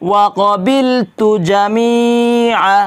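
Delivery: slow, drawn-out Arabic recitation. Shown as a demonstration. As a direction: recite each syllable slowly for students. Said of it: "teacher models Arabic recitation slowly". (ধীরে টেনে আরবি তিলাওয়াত)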